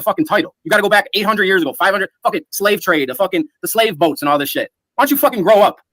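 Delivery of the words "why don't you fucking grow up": angry yelling. Real, not acted. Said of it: "I'm not the one screaming".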